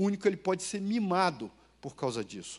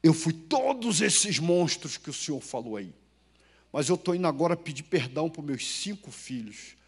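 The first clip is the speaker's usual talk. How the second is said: lightly voiced old man; 4 semitones lower than usual. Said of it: "Ele me parou e disse assim".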